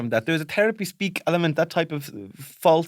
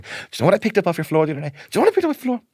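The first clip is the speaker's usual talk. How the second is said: mock angry mum; 4 semitones higher, much faster than usual. Mother scolding the kids.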